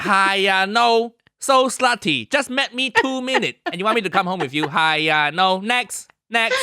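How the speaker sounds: put-on accented, dismissive comic uncle; hammed-up scornful uncle character; Uncle Roger. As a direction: reject them in a put-on Asian uncle accent. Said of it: "coax Uncle Roger out".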